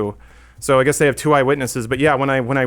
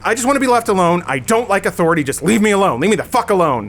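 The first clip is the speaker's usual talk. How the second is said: higher, indignant going off; imitating her going off; mock furious rant; 5 semitones higher than usual. Mocking the woman going off at the attendant, furious. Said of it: "going off on all this stuff".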